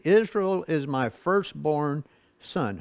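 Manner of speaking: slow, "Israel" weighted; slow pointed repeat; stress on Israel. Shown as a demonstration. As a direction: read it slowly, making them hear Israel. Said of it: "Did you ever notice that before?".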